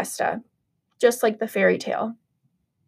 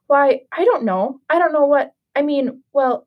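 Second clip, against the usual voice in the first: high, stammering, caught-out agreement; sputter, then force politeness; flustered stepmother; 4 semitones higher than usual. Acted.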